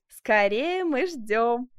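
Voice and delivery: burning with curiosity; eager exclamation. A narrator's reading. Diane urging Benvenuto on, eager. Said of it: "воскликнула Диана де Пуатье".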